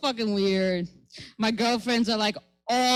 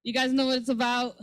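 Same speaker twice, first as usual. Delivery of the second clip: ordinary talk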